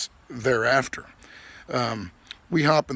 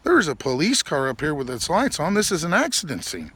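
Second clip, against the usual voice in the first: higher, urgent disbelief; alarmed; 6 semitones higher than usual. Retold or imitated. Passenger warning the driver about the accident scene. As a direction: warn him he's going way too fast.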